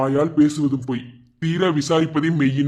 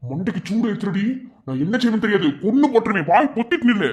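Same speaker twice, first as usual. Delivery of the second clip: angry threat; 5 semitones higher than usual. Acted. Husband threatens angry wife.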